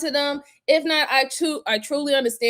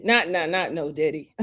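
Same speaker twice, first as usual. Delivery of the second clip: laughing denial; 7 semitones lower than usual. Real, not acted. Host laughingly denies the joke about a rapper to chat. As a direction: laugh it off while denying.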